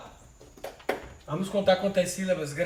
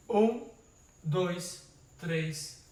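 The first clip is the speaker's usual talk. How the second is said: counting syllables; much slower than usual. Shown as a demonstration. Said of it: "vamos contar agora?".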